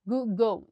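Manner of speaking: "Google" ending in an O sound; teacher showing the O at the end of "Google"; final-syllable demo. Shown as a demonstration. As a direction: sound out "Google" as "goo-gow". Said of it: "G L E tem som de O".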